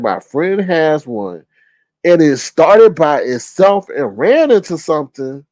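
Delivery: slow, deliberate reread of the quote; slowly repeating a viewer's comment. Retold or imitated. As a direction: read each word slowly, puzzled. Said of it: "You said".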